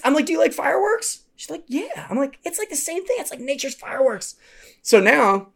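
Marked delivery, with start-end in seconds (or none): 0.2-1.2 put-on high, kid-friendly question; coaxing a child. Counselor distracting scared girl, high coaxing voice. 1.7-2.1 put-on small high child voice; little girl. Girl answering counselor about fireworks, small high voice. 2.4-4.4 put-on high-pitched kid-friendly pep talk; reassuring a child. Counselor explaining thunder to girl, high reassuring voice.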